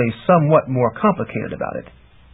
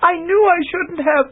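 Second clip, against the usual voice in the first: put-on higher young woman, regretful; remorseful. A narrator's reading. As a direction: blame yourself gently. Chameleon's remorse.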